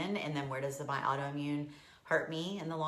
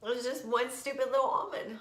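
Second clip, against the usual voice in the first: crying; 7 semitones higher than usual. Real, not acted. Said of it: "I'm not even sure why I'm crying".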